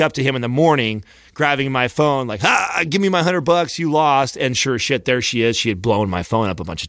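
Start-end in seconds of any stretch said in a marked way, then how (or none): 2.4-4.4 higher-pitched mock gloat; gloating buddy. Buddy claims his winnings from a friend, gloating. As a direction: crow over a won bet, mimicking a buddy.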